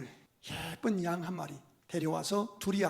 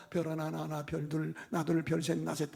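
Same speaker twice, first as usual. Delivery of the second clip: lyrical; 3 semitones lower than usual. Acted. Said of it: "아주 서정적으로 합니다".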